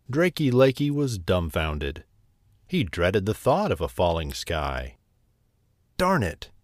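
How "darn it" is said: squawking. A narrator's reading. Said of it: "he squawked".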